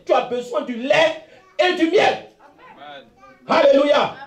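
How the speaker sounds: steady, declaiming sermon voice; a pastor declaring blessing over the faithful; fervent preaching. Real, not acted. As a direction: proclaim it to the congregation.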